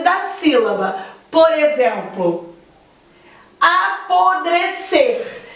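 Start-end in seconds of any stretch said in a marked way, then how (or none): 3.6-5.4 apodrecer said slowly, syllable by syllable, higher pitched; slow, careful apodrecer with stress on the last syllable; drawn-out demonstration. Shown as a demonstration. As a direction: spell out apodrecer by sound, ending on a stressed cer. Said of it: "A sílaba tônica é o ser".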